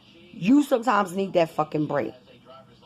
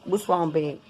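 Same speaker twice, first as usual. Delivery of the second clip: sleepy concern; 3 semitones lower than usual. Retold or imitated. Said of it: "I get up and say".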